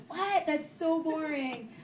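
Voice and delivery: high-pitched mock disbelief, then drawn out slowly; incredulous letdown. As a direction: imitate a stranger let down by a dull answer. Acted letdown reaction of curious strangers.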